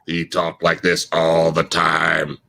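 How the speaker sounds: slow, low droning teacher; a light imitation of a slow monotone teacher; teacher's voice. Shown as a demonstration. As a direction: drag each word like the dull teacher. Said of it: "this is how he would talk".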